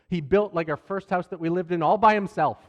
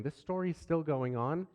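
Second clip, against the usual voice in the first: softer, rising disbelieving question; weary viewer question; 7 dB quieter than usual. Shown as a demonstration. Voicing an impatient viewer, soft rising disbelief. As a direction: ask it like a bored listener. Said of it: "if you're wondering".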